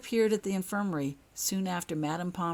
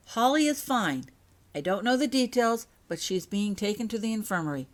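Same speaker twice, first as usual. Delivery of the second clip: bright, higher relieved voice; relieved news; 5 semitones higher, 4 dB louder than usual. Acted. Message read aloud to worried parents, relieved and high. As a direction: read the good news lifting up.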